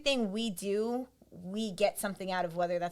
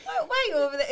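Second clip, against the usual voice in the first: talking to a puppy; 11 semitones higher, 4 dB louder, much faster than usual. Retold or imitated. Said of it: "like a little puppy or a kitten".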